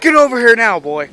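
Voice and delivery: loud call to the dog; calling from far away. Acted. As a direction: call the dog over from afar. Owner calls dog from afar.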